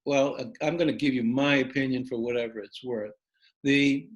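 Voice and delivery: talking while chewing gum; words around a wad of gum. Real, not acted. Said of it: "Trying to talk and chew gum".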